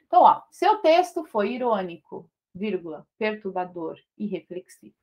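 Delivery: dite a lista pausando na vírgula; lendo a enumeração. Shown as a demonstration. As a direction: professora lendo a frase com as vírgulas. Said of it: "Estou fazendo uma enumeração". (pausa marcada em cada vírgula)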